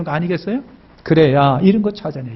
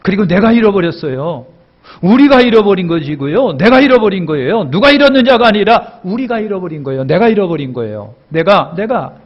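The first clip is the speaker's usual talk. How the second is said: louder, higher, pressing each 내가; rising preaching shout; 5 semitones higher, 5 dB louder than usual. Real, not acted. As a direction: build to a fervent cry. Preacher's climax, building emphasis. (점점 높아지는 설교 외침)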